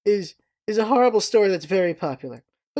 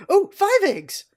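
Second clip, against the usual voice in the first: high, bright-eyed raccoon squeak; eager raccoon; 12 semitones higher, slower than usual. Retold or imitated. Raccoon in a trench coat ordering eggs, high and eager. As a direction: blurt the order happily. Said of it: "the raccoon goes".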